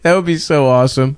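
ordinary delivery

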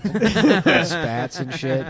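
laughing. Real, not acted. Laughing describing crocodile outfit.

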